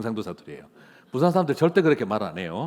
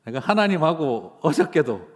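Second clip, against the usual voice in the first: light Gyeongsang swagger; 4 semitones higher, 4 dB louder than usual. Pretend. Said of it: "이렇게 할 수 있는 분들이시라는 거예요".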